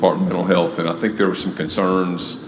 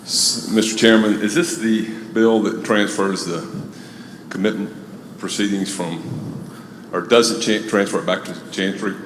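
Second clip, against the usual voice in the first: out of breath. Real, not acted. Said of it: "Sorry, I'm out of breath and coming up the stairs".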